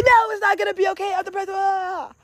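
high-pitched, rapid whiny protest; mock distressed refusal. Depressed self rejecting comfort, high mock wail. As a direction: wail it fast and very high, hammed-up. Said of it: "The human reaction is to say".

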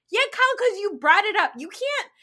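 high, loud exasperated retort; exasperated scolding. Retold or imitated. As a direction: tell Kyle off, fed up. Scolding Kyle in imagined reply.

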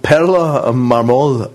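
Perla Marmol said slowly, each syllable clear; slow corrective stress. Shown as a demonstration. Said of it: "She's called Panty Mamo".

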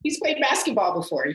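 high, urgent call for a friend's help; acted nervous plea. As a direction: plead in a high, flustered voice, hammed up. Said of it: "I get real nervous".

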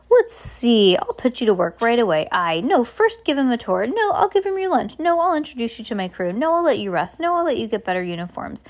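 lightly voiced captain, lively rise and fall; change your mind aloud, mildly flustered; dithering excitable captain. Captain planning for his new arrivals, excitable dithering.

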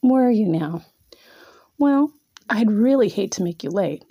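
teasing breathy whisper. Acted. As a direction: hush it close to his ear. Mocking whisper at flustered man.

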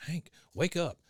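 lightly voiced wake-up call; a hint of a wife rousing her husband; Peggy. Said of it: "then Peggy goes".

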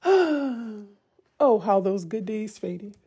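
a sighing, slowed, hammed-up lament; mock wistful sigh. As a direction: mourn the good days in jest.

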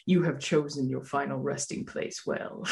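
spooky doorbell voice, laughing through it; haunted house announcer voice; deep scary voice. Retold or imitated. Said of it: "deep, scary voice".

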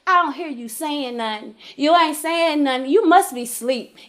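exasperated taunt, building to a high, loud call; angry. Retold or imitated. Woman retelling her wait for God's answer, angrily exasperated. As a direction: start near normal, end calling up to God. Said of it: "I'm getting angry".

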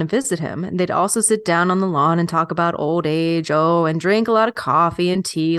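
lightly put-on old West storyteller accent; L'Amour's accent. Reading out Louis L'Amour's life story, in a light put-on accent. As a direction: slip gently into a folksy Western accent. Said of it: "I'm loving the accent".

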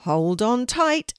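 drawn-out ride announcement; announcing. A narrator's reading. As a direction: announce it slowly to the riders. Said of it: "announced Steve".

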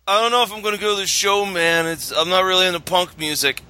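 fast, lightly voiced high guy; lightly voiced stoner from a college comedy. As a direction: drift through it like a stoned college kid. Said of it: "our high guy impression".

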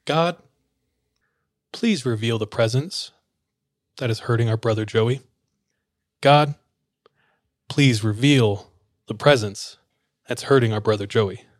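measured, calm imitation of praying; calm prayer. Pastor couple praying over a troubled man, calmly. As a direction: pray calmly, with long pauses. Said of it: "they very calmly say".

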